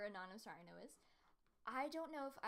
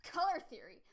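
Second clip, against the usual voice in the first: puzzled; 4 semitones higher, 9 dB louder than usual. Real, not acted. Confused echo.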